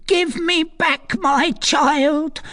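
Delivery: very high, slow wail; anguished demand. A narrator's reading. Recluse demands her lost child, anguished. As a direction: wail it slowly, word by word.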